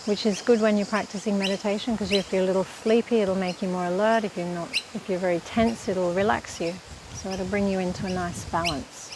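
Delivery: calm, even-toned meditation teacher; unhurried meditation instruction, leaving space to breathe; guided meditation. Real, not acted. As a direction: guide them gently through breath practice, with long pauses.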